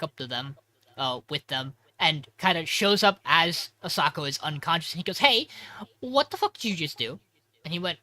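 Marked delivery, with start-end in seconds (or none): 5.2-7.2 alarmed shout. Retold or imitated. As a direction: yell it in shock at a friend. Yoshiki shouting at Hikaru.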